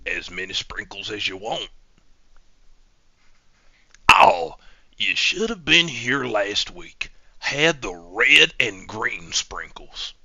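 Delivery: slow, drawn-out server patter; lightly voiced, slow-talking sprinkle seller; put-on server voice. Server telling a customer about last week's sprinkles, slow put-on voice.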